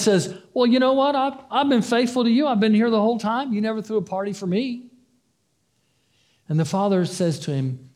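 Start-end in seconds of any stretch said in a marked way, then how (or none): 0.5-4.9 higher, hurt protest; aggrieved complaint. Retold or imitated. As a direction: plead your unfairness case, a bit higher. Older son complains to father.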